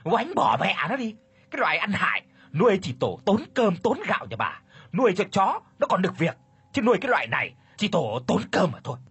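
shrill high scolding, fast at the end; egging him on. A narrator's reading. Wife urges her husband to beat servants, contemptuous shouting. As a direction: spit contempt at the useless servants. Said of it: "cổ vũ cho chồng".

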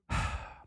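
unvoiced breathy sigh. Real, not acted. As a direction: let out a long breath. Sigh after the shout.

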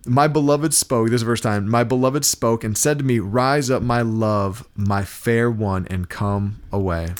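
slow, measured Bible reading; scripture reading. Acted. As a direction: read the verse like a preacher. Reads Song of Songs aloud.

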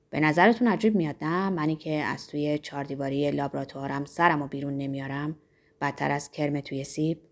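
lightly voiced pompous pharmacist. Pharmacist explaining himself to the innkeeper, lightly pompous. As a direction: play the pharmacist, mildly self-important and low.

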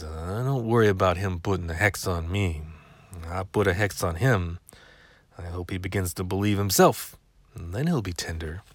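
lightly voiced grumpy old neighbor; a hint of a cranky old man. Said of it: "in the old man cr-, cranky voice".

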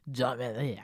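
clumsy attempt at a German accent; failed German accent. Shown as a demonstration. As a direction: try a German accent and miss. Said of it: "I can't do a German accent".

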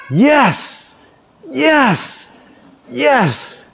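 high, punched mock cries; triumphant kid. Preacher imitating the boy lifting up his game, triumphant. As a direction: imitate a child cheering in triumph. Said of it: "he lifts it up and he says".

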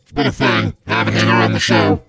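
irritated Krampus voice. Acted.

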